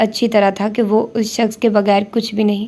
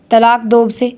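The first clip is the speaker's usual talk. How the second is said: a raised, stern order; father insisting, a touch louder; mild shout; 4 dB louder than usual. Acted. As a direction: bark the divorce demand out, a bit louder. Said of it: "وہ چلائے۔".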